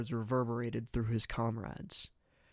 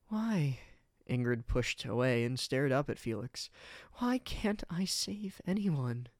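despairing. Acted. Ingrid despairing to Felix.

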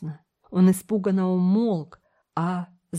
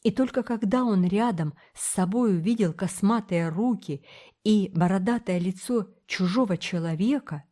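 ordinary delivery

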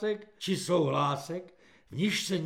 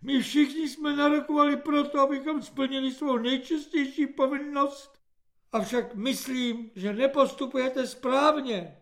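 high-pitched pious speech; earnest objection; 9 semitones higher, 3 dB louder than usual. A narrator's reading. Editor-recruit reproving the corporal, earnestly high-pitched. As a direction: recite duty in a much higher voice.

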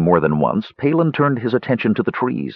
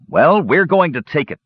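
raised-pitch battle challenge; mildly shouted, forceful defiance; fierce shout; 7 semitones higher, 3 dB louder than usual. A narrator's reading. Tannen tries to drum up enthusiasm for battle, shouting fiercely. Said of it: "Tannen shouted fiercely".

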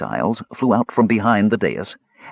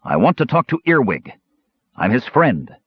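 shouting; 4 semitones higher than usual. Acted. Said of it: "Caramon shouted".

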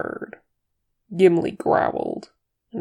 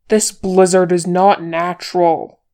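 loud, forceful shout at usual pitch; 8 dB louder than usual. A narrator's reading. Boromir warning the company in the snowstorm, shouting. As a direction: shout over a blizzard. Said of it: "shouted Boromir".

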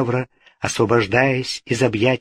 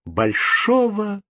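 slow, bitter resignation; 2 semitones higher than usual. A narrator's reading. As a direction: give in slowly and bitterly. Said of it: "прибавила она горько". (медленно, с горечью)

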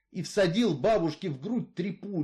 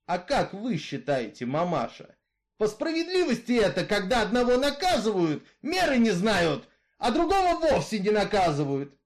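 louder, steady outlaw's voice, arguing his case; Misfit, brooding killer; 5 semitones higher, 4 dB louder than usual. Acted. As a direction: tell her your grievance, hard and level. Misfit asks grandmother. (голос Изгоя, громче и жёстче)

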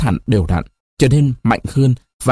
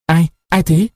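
feigned startle; 5 semitones higher than usual. A narrator's reading. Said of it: "Nó làm như vừa mới giật mình".

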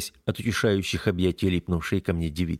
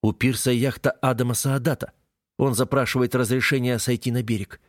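official tone; 3 semitones higher than usual. Acted. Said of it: "переходит на официальный тон".

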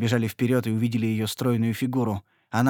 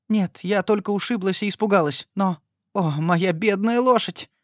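higher, slowed wail over the horse; tearful lament; 8 semitones higher, 4 dB louder than usual. A narrator's reading. Lady lamenting her dead horse: tearful wail. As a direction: mourn the poor horse.

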